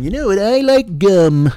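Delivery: slow, dreamy mock podcaster; dopey podcaster. Amateur podcaster musing into a mic, slow and dopey. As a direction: drag it out like a clueless host.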